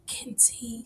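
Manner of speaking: "Getting tea" breathed out in a soft whisper; whispered echo. Pretend.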